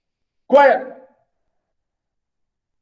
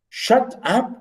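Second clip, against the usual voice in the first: rude quote; 7 semitones higher than usual. Shown as a demonstration. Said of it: "This is a bad thing to say".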